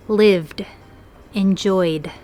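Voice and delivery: "lived" and "enjoyed" ending in voiced d. Shown as a demonstration. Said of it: "with a D sound".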